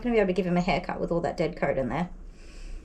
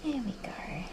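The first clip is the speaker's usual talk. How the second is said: soft, calm voice; 9 dB quieter than usual. Real, not acted. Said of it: "I talk in my anxious doggy voice".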